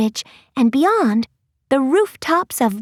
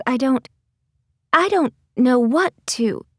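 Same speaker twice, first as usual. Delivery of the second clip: put-on defiant cat-girl voice; 5 semitones lower than usual. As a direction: declare it, then lose your nerve. Kitty's defiant then faltering speech.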